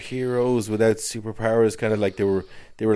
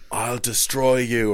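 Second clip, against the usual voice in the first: slow, louder mock villain line; acted movie threat; 5 semitones higher, 5 dB louder, slower than usual. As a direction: deliver a hokey threat, slightly raised. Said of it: "I was just going like".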